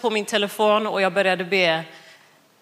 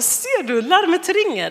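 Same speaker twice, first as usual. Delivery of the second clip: higher-pitched "told you so"; excited retelling; 9 semitones higher than usual. Retold or imitated. Wife showing husband the alarm rings, excited retold exclamation. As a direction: pitch jumps up in mock triumph.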